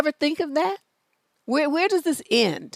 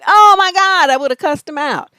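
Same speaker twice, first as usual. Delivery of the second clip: mock outburst; 3 semitones higher, 8 dB louder than usual. Exclaiming over the letter writer.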